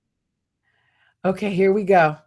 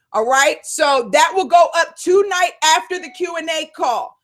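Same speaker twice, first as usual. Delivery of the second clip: normal talking voice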